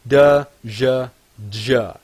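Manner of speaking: "D, J" said as a "d" then a "zh" sound; English J from D plus J. Shown as a demonstration. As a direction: build "J" as "d" plus "zh". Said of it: "you put a D in front of it".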